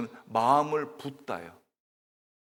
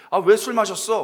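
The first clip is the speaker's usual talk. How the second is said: accusing priest; 6 semitones higher, 9 dB louder than usual. Acted. Eli accuses Hannah of drinking.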